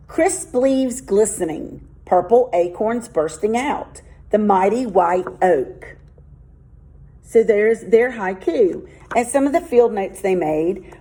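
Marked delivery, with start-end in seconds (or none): 0.1-6.0 slow, gentle poem recital; poem reading. Shown as a demonstration. Teacher reading a haiku about an oak tree, slow and gentle. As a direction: read it out as a short nature poem.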